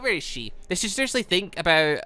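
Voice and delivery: ordinary talk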